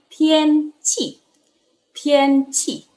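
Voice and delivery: "tian" high and level, "qi" falling sharply; slow, high "tian", short falling "qi"; Mandarin tones demo. Shown as a demonstration. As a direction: hold "tian" high, then drop "qi". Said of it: "Tian nada satu dengan qi nada empat".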